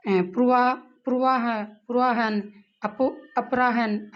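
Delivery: अपराहन slowed after a false start अपो; slow careful reading. Shown as a demonstration. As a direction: feel your way into अपराहन slowly. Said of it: "word read twice". (धीमा, सँभलकर उच्चारण)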